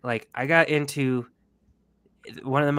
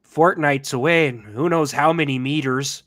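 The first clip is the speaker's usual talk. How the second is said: bad American accent; 5 dB louder than usual. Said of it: "Liam Neeson trying to play an American cowboy".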